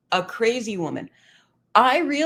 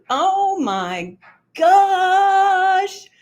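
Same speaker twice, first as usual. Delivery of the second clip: excited gasp; 11 semitones higher, 7 dB louder, much slower than usual. Real, not acted. Thrilled about friend's news.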